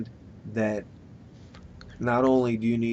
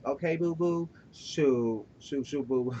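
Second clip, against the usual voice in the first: light, slightly higher pet-talk shooing someone away; a hint of a sassy coo, softer; 3 semitones higher, 4 dB quieter, slower than usual. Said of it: "I have to talk like this".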